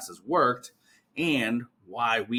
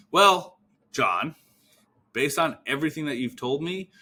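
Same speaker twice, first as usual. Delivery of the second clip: assured, measured, with firm pauses; confident, deliberate reassurance; certain tonality; 3 semitones higher than usual. Shown as a demonstration. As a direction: land "definitely help" with full certainty. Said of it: "You wanna be certain in that tonality".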